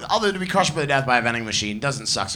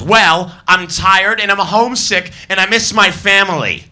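high, loud tearful complaint; mock sobbing; 6 semitones higher, 7 dB louder than usual. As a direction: wail out her troubles. Sobbing woman lists her woes.

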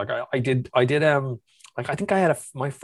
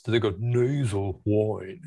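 lowered nasal Trinity whine; Trinity accent; slower than usual. Shown as a demonstration. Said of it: "the exact opposite is what happens".

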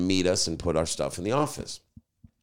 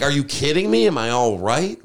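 retold starstruck disbelief, higher at the start; incredulous; 5 semitones higher, 4 dB louder than usual. Starstruck fan to a famous singer who bumped him, incredulous. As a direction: act out stunned, excited disbelief.

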